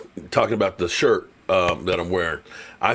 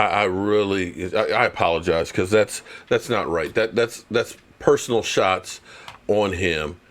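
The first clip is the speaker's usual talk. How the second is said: softer, lower contrite voice; mock apology; 4 semitones lower, 3 dB quieter than usual. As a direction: apologize quietly, sheepish. Mock contrite apology after trash talk.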